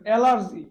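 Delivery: অ্যালার্জি said as all are; অ্যালার্জি broken into all are; spelled out slowly. Shown as a demonstration. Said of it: "এটা কিভাবে মনে রাখবেন?". (অ্যালার্জি ভেঙে বলা)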